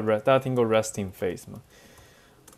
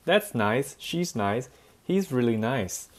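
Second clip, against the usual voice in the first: American nice; 2 semitones higher, slower than usual. Retold or imitated. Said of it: "Americans love to say".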